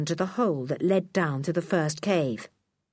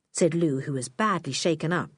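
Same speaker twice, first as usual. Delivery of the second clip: plain reading voice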